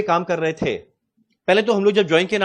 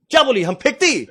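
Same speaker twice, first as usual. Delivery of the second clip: higher-pitched South Indian challenge; mock South Indian accent; 4 semitones higher than usual. Typical South Indian man turns on the trainee, mock South Indian accent. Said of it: "हम उसका tone का ही मजाक उड़ा रहे हैं".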